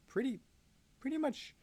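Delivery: high emphatic. Retold or imitated. Emphasis in rant.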